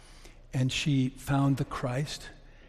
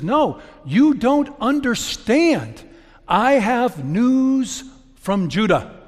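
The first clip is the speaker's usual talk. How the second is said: Amra pleading; 8 semitones higher, 8 dB louder, slower than usual. Acted. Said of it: "and she says".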